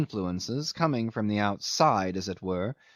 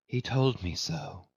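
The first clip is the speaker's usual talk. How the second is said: hushed, lightly voiced near-whisper; soft whisper; 4 dB quieter than usual. A narrator's reading. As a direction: confide it softly, almost whispering. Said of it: "she whispered softly".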